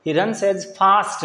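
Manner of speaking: "he runs as fast" spoken very slowly; slow dictation. Shown as a demonstration. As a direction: lay out each word for the class. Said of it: "पहले में fast आएगा".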